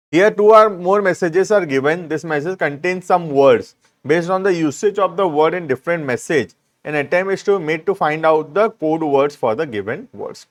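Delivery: slow, deliberate reading of the rule; teacher dictating from the book; slow dictation. Shown as a demonstration. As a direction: read it out clause by clause for notes. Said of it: "reading textbook rules slowly".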